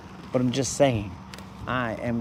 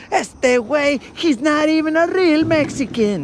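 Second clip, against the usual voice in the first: mocking reporters; 5 dB louder than usual. Interviewers mocking him.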